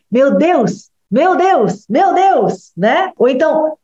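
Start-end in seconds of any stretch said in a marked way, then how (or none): 0.1-2.7 building fretful excitement; mounting agitation. Retold or imitated. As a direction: wind yourself up with every repeat. Anxious child's excitement mounting.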